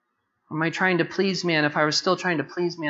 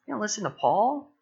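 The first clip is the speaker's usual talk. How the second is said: scoffing crowd; 6 semitones higher than usual. Retold or imitated. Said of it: "people go".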